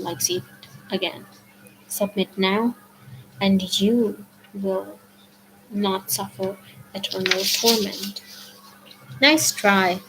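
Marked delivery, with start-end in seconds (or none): 1.9-8.2 menacing Fury. Acted. Fury threatening Percy. 9.2-10.0 defiant quip. Acted. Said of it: "I told her".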